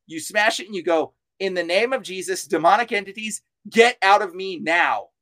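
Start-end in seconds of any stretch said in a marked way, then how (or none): 1.4-5.1 commanding. Shown as a demonstration. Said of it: "you speak to it like a dog".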